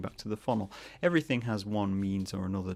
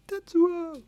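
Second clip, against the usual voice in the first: much higher, louder cry of the name Tetsuo; mock anime shout; 6 dB louder than usual. Akira reference, calling out Tetsuo.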